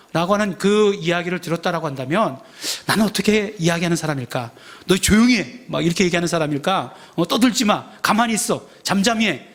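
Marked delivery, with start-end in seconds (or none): 4.9-5.6 higher retold shushing, slightly forceful; mock scolding. Someone in the crowd to the beggar, mock scolding. 7.3-9.5 higher-pitched string of retold rebukes; mock scolding. Someone in the crowd hushing the beggar, mock scolding.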